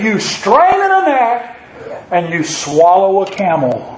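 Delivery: mocking rebuke to the congregation; sarcastic. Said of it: "That's what the prophet says sarcastically".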